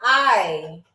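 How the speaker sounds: I said low and short, like a yes; I as a quick, low, flat yes; Scottish aye. Shown as a demonstration. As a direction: show aye as a casual yes. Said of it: "So it is spelled A Y E".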